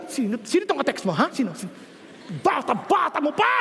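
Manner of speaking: rapid scolding rant; mock nagging parent. Parent interrogating child about the texter, quick mock scolding. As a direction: fire off the questions like an angry parent. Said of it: "Kasi minsan yung mga magulang".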